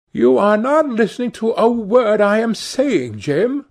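a hint of an eager young sister; Sibyl crying out. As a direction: coax her brother to listen. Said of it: "cried Sibyl".

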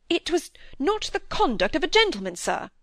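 put-on a stammering young man's indignant repeat; stammering indignation. A narrator's reading. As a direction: trip over the words, voice rising. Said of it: "stammering over his words".

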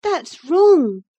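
put-on high, lively young girl; bright eager girl chiding her uncle. A narrator's reading. Young Catherine's voice.

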